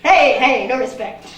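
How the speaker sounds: loud mock indignation at the crowd; a hammed-up plea for respect; mock-offended heckle back; mock protest. Comic protest at crowd reaction.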